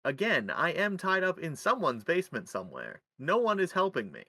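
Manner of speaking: announcer delivery of a mock plea; podcast host intro. Host claiming to be tied up in a basement, in announcer style. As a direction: present captivity like a show intro.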